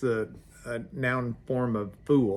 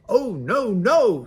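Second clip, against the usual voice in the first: much higher, louder alarmed refusal; the fly refusing the spider, higher and louder; frightened fly; 8 semitones higher, 9 dB louder, slower than usual. Acted. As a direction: shrink back in alarm. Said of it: "said the little fly".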